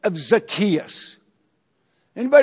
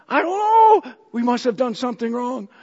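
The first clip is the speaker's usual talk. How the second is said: mock fright. Panicked spouse.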